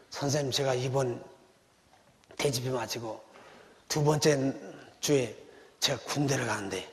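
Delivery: 작고 낮게 조심스레 묻는 청년; 걱정을 안고 머뭇거리듯; anxious young man. Retold or imitated. Young man asks pastor anxiously. (군대 가는 청년이 목사에게, 작고 낮게 조심스러운 상담)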